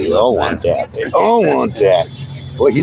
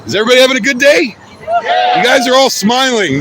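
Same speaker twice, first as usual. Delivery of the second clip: calling out excitedly; 8 semitones higher than usual. Real, not acted. Streamer rallies the passing protesters, high excited call-out. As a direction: pitch way up and rally everyone around you.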